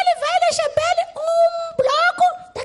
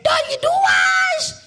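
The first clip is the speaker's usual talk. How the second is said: auction call; 3 semitones higher, 5 dB louder than usual. Pretend.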